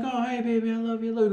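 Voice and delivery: tender to daughter. Retold or imitated. Father softens for his daughter mid-game, tender and soft. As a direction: melt for the little girl. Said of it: "and I'm like".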